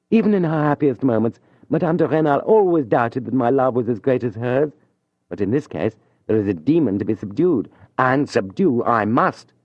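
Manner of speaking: a lover steeling himself; proud young man. Acted. Julien reasoning to himself, proud and determined.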